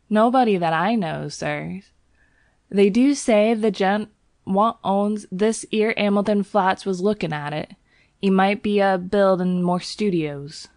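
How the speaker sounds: a chatty Cockney servant; Cockney bell boy. Acted. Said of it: "Thomas's Cockney dialect".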